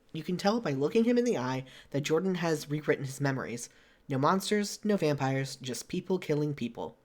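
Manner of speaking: measured game narration; story narration. Acted. Reading a visual novel's scene to a friend, story narration. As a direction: read the scene out steadily.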